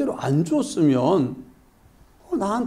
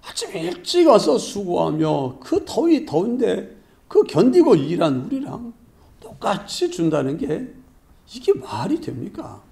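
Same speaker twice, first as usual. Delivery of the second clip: aggrieved grumbling; 2 semitones higher than usual. Acted. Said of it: "막 원망하고 따져대는 거예요".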